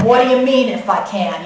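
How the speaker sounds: put-on tough New York accent comeback. Jesus answering the doubting father in a New York accent. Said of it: "I picture that in a New York accent".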